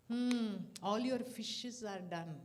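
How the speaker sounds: slow, deliberate blessing voice. Retold or imitated. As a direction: bestow it slowly like a guru. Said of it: "he told me".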